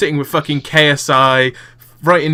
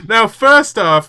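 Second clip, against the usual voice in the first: Keemstar news host; 5 semitones higher, 4 dB louder, slower than usual. Pretend. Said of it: "Killer Keemstar".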